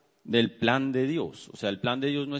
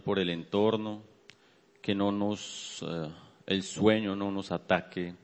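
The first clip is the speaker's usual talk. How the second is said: earnest prayer, a little lower than preaching; 3 semitones lower than usual. Real, not acted. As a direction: lead the congregation in measured, sincere prayer. Leads the congregation in prayer.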